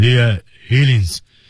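stiff-tongued, dopey, dim-witted king voice. Describing the voice for a not-so-clever king: stiff, dopey voice. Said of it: "舌头根硬的那种感觉".

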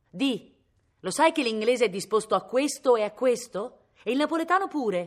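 loud, high-pitched called-out shout. Viola calls up to Cosimo, who sits in a tree; shouted. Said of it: "gli gridava".

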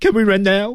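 very high, heavily nasal, honking duck-like voice. Pronunciation practice of an english question; heavy nasal duck-like voice. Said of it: "多一点鼻音，以鸭子的感觉呢，鼻音会重一点啊。".

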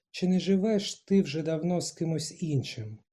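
ordinary delivery

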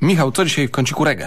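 cutting, stern voice. Acting a radio-play bit, asking someone about today's reggae corner, sharp and harsh. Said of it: "bo ja mam być ostry i tak ostro zapytać".

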